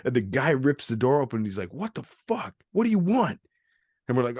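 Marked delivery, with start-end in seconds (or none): 1.7-3.4 high mock outrage; imitated angry resident. Man ripping door open on strangers, high mock anger. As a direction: demand an answer in a raised, put-on voice.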